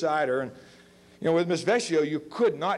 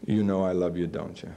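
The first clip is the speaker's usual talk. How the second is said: put-on old teacher; 7 semitones lower than usual. Old teacher repeats old line.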